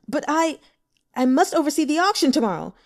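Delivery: loud, high and fast; flustered protest. Acted. Broker protesting his detention before the auction, flustered. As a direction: rush out the objection.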